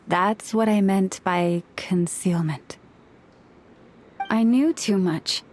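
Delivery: whispered admission; hushed confession of secrecy. Acted. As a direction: let it out under your breath. Admitting a hidden truth.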